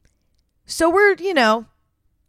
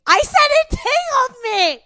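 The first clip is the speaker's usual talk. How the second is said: laughing; 3 dB louder, slower than usual. Real, not acted. Mortified recalling her own words.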